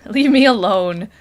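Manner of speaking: slow, loud brush-off; loud and annoyed. Pretend. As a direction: tell them off, slowly. Mock annoyed intruder.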